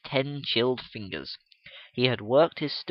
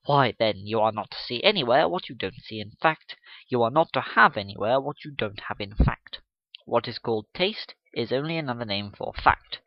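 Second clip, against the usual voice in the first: indignant lecture; 2 semitones lower than usual. Acted. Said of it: "with an indignant look".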